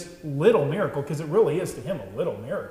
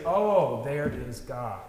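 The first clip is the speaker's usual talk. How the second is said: a lifted "Oh" of mild amazement; sudden recognition; 3 semitones lower, slower than usual. Retold or imitated. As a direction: catch your breath at a wonder. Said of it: "instantly we say".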